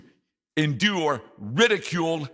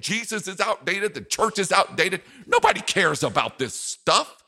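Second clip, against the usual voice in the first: dismissive ridicule; 4 semitones higher than usual. Retold or imitated. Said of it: "It will come in such forms as this".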